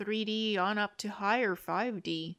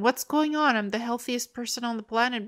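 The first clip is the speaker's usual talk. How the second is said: higher-pitched, acted-out bewilderment; puzzled wondering; 3 semitones higher, 4 dB louder than usual. Acting out healthy people wondering about odd symptoms, puzzled. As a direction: voice someone baffled, pitched up. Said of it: "like, wondering".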